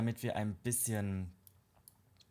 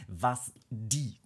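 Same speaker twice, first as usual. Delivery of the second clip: die punched, a touch louder; stress on die; 4 dB louder than usual. Shown as a demonstration. Stressing die while thanking the house builder, light emphasis. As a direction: lean on the word die. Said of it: "die Betonung liegt auf die".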